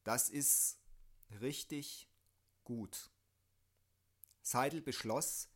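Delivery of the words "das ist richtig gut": put-on drunk, heavy-tongued slur; thick-tongued drunken voice; slurred drunk speech. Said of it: "artikulierte sie mit schwerer Zunge".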